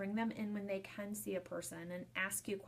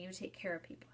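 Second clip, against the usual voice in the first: whisper; 7 dB quieter, faster than usual. Retold or imitated. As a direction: repeat it in a soft whisper, no voice. Daughter's answer repeated, whispered.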